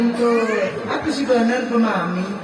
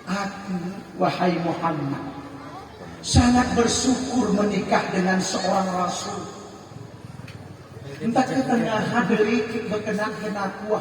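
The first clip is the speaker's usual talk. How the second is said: tender, grateful wife. Acted. Wife telling her husband she is grateful to marry him, tender.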